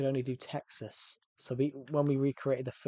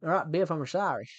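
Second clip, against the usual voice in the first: lightly Texan movie character apology; put-on Texas accent; 3 semitones higher, 5 dB louder than usual. McFly apologising to Biff, put-on Texas accent. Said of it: "but it was in Texas".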